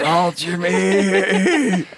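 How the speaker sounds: very slow high whisper; soft echoing dream voice. Pretend. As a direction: breathe it out slowly as you die. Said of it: "can you do it as you die for me".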